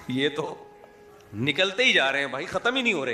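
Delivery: a touch of mock amazement rising on ختم ہی نہیں ہو رہے; amazed. Cyclist gawks as the big teacher keeps emerging, mildly astonished. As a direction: play the cyclist's astonishment lightly.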